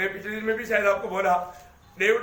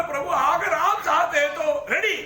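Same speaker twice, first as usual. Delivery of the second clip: eager readiness; 6 semitones higher, 3 dB louder, slower than usual. Shown as a demonstration. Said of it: "प्रभु को बोलो".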